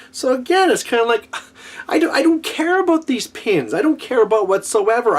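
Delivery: high, exasperated complaining; fed up, pitch climbing high; exasperated rant. Real, not acted. Exasperated rant about forced pins.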